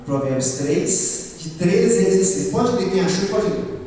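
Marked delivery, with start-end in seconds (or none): 0.1-2.5 tongue-tied lisp. Real, not acted. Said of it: "com a língua bem presa".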